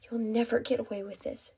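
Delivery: soft, hushed warning; whispered defiance. Acted. Captive warns her kidnapper, whispering. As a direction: defy him under your breath. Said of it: "she whispered".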